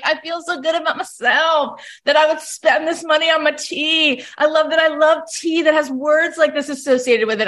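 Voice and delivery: proud, over-the-top tea lover; gushing self-satisfaction. Retold or imitated. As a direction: swoon over your own good taste. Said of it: "That's how I felt".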